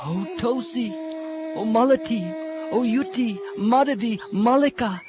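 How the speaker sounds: pleading gopis. Acted. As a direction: coax the flowers like close friends. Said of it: "the gopis inquired from the plants".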